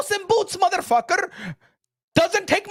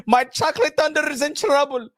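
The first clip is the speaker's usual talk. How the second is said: mock panic; 3 semitones lower than usual. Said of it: "I said".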